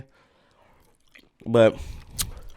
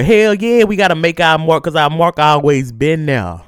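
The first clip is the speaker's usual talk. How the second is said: defiant; 3 semitones higher, 5 dB louder than usual. Real, not acted. Defiant proud declaration.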